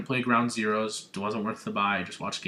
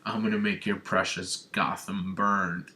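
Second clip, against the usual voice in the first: Scarecrow; 4 semitones lower, 3 dB quieter than usual. Retold or imitated. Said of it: "and he's like".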